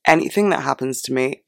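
voice cracking. Real, not acted. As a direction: voice breaking mid-sentence. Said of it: "sorry, my voice just broke".

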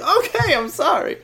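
mock-flustered high squeal; startled apology. Retold startled reply to scolding nurse.

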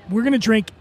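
words broken by a burp. Real, not acted. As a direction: talk through a small burp. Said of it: "excuse me, I'm burping".

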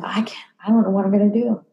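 fast, breathless whispered worry; upset whisper. Retold or imitated. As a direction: rush it out under your breath, distraught. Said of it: "I said".

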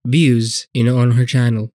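talking through a stuffy nose; congested, nasal-sounding speech; blocked nose. Real, not acted. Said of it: "something kind of blocking my nose".

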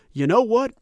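a light Southern drawl, coach at the podium; lazy Southern drawl, hint of a down-home coach; Mike Gundy Southern drawl. Host mimics Gundy's postgame presser in a light Southern drawl. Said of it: "he has a Southern drawl whenever I do his impersonation".

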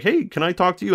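high, pestering little ask. Retold or imitated. Caligari pestering the town clerk, mock eager. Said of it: "Caligari keeps, like, pestering him".

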